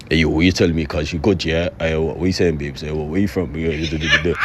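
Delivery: very low monotone hood voice. Shown as a demonstration. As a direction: put on a low, tough road-man voice. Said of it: "trying to force the hood voice".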